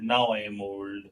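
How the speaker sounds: slightly low-pitched imitation of a complainer; mock moaning. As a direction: lightly imitate someone moaning about age. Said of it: "always crying about getting old".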